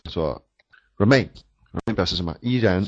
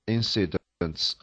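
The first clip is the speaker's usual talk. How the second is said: slow model reading; 4 dB quieter, much slower than usual. Shown as a demonstration. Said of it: "比如说".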